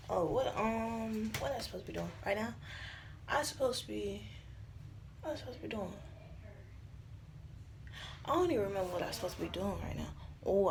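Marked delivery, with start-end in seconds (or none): 5.2-10.1 fast confused whisper. Real, not acted. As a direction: whisper quickly, a bit lost.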